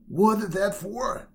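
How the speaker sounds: loud, high, drawn-out protest; crying out. A narrator's reading. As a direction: cry out in indignant shock. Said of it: "cried the bear".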